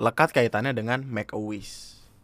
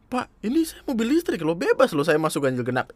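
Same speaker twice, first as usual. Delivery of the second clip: smug driver; 5 semitones higher than usual. Retold or imitated. Driver boasting to police officer.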